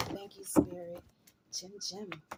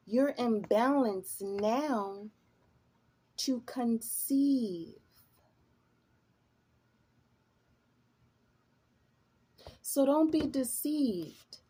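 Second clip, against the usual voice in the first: reassuring; 2 semitones higher, 3 dB louder, slower than usual. Real, not acted. Reassuring reading for Gemini viewer.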